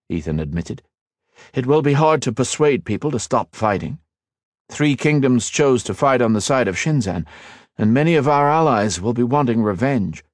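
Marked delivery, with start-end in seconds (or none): 1.5-10.2 put-on raised, earnest young hero. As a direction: explain it gravely and kindly. Ethan explains.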